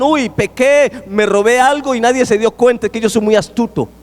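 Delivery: lightly acted sly self-congratulation; gloating sinner. Preacher mimics a sinner who thinks he's astute, mock gloating.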